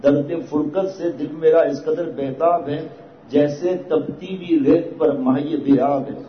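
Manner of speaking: slow, drawn-out recitation of a couplet; lingering on each word of the verse; slow poetic recitation; poem recital. Acted. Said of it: "یہ شعر حضرت کا ہوا".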